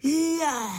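high loud wow; amazed cry. A narrator's reading. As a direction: gasp in wonder. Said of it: "zvolali všichni s údivem". (údivem zvolané Je)

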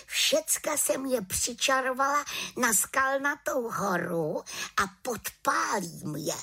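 boasting of her clever plan; proud little witch. A narrator's reading.

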